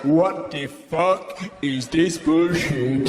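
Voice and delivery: slow, disgruntled big cat; a lion grumbling in the cold; grumpy lion voice. Acted. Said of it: "What voice would he have?".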